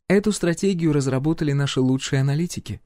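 composed royal inquiry; empress voice. A narrator's reading. Empress questions the hero's plans, lightly voiced.

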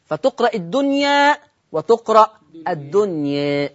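الدنيا first with an open final alif, then with a tilted one; fath then taqlil. Shown as a demonstration. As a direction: show both readings of الدنيا, slowly. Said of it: "فيه الفتح وفيه التقليل". (الدنيا بالفتح ثم بالتقليل)

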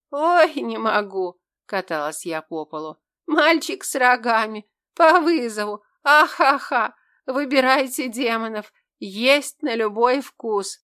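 loud, high hysterical laughter; laughing hysterically. A narrator's reading. Girl rolls on the floor mocking the demon, laughing loudly. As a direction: cackle it out, helpless with laughter. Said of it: "Я хохотала, как безумная".

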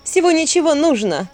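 loud, high cold witch voice; defiant witch. A narrator's reading. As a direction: lay out the deal with scorn. Witch explains her bargain defiantly.

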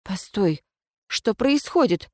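startled, rising questions; bewildered, voice climbing; surprised. Acted. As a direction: caught off guard by the ghost. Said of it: "удивлялась я".

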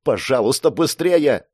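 tense, urgent begging; trembling plea. Acted. Girl begs Mark to hurry, trembling. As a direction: plead for haste, voice rising. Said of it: "процедила девушка дрожащим голосом".

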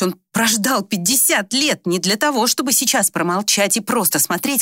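ordinary delivery

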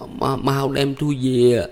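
slow, weak groaning plea; moaning. A narrator's reading. Wounded Ba Lành begging to be carried home, moaning. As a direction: moan it through the pain. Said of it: "Ba Lành rên rỉ".

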